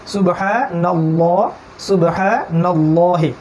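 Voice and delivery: সুবহানাল্লাহি very slow, with a heavy, thick ল. Shown as a demonstration. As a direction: draw out সুবহানাল্লাহি with a full, dark ল. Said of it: "পুরু পড়তে হবে".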